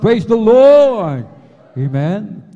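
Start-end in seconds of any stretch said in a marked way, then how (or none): 0.0-1.2 loud, high, drawn-out slow praise cry; shout of praise. Real, not acted. Preacher leading the congregation to shout praise, slowly and loud. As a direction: lead the crowd in a big shout. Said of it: "Everybody shout".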